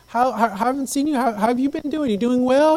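kind greeting. Retold or imitated. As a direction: greet him kindly in a lifted pitch. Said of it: "She was kind".

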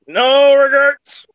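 slow, loud, high proud declaration. Shown as a demonstration. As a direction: belt it out slowly like a motto. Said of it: "repeated slogan, drawn out".

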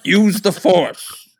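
slow, far-off Jedi mentor voice, half laughing; mock Jedi wisdom, drawn out slowly; hammed-up Obi-Wan force whisper-talk. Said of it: "You're fucking Obi-Wanning me".

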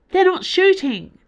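high, loud shout across the cockpit. Acted. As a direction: yell it over the alarm. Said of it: "shouted Magellan".

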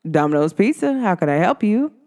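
mock customer-service phone voice; professional phone greeting. Shown as a demonstration. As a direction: answer like a bored takeout clerk on the line. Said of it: "Some days I might be like".

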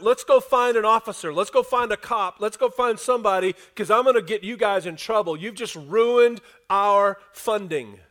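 indignant threat. Acted. Owners dragging Paul and Silas off, indignant threat. Acts the girl's angry owners.

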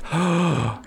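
big acted gasp of amazement; awed gasp. Acting out a concert crowd hearing the guitar, amazed gasp. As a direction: gasp as if your jaw just dropped. Acts out audience's amazed reaction.

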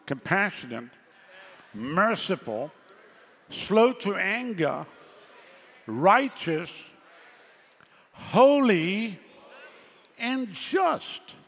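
slow, each word set apart for the congregation to repeat; call and response. Shown as a demonstration. Preacher leading the congregation, slow call and response. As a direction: lead the words one by one, rising toward holy. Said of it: "Say this after me".

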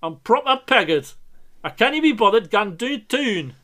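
put-on Geordie accent. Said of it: "Come on, someone do it".

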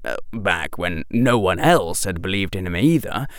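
ordinary delivery

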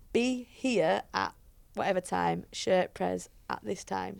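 slow, deliberate relaying of instructions; spelled-out instructions. Retold or imitated. Coach relaying the girls' shirt press times, slowly spelled out. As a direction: lay it out slowly, piece by piece.

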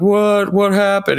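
high, startled what; confused surprise. Retold or imitated. Kyle, suddenly back to his senses, baffled and high. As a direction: play it baffled, the voice jumping up.

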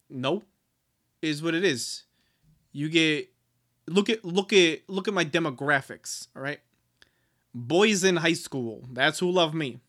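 imitated Jersey author; lightly put-on Jersey talk; New Jersey accent. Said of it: "dude from New Jersey".

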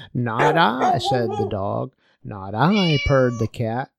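put-on reading a children's folk tale aloud, with little voices for the animals; story narration. Preacher reading the little red hen tale to his congregation, storytelling voice. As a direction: tell it like a bedtime story, lively and clear.

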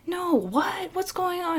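a lightly voiced puzzled skater; mock confused kid. Other kid confused by Dion.

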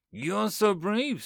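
a slow, starry-eyed queen's compliment; admiring queen. Acted. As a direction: gush over the hero slowly.

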